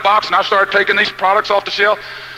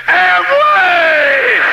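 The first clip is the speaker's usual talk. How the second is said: wife's thrilled cry, much higher and louder; excited shout; 8 semitones higher, 4 dB louder than usual. Retold or imitated. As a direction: shout the name like a victory. Wife announcing her choice excitedly.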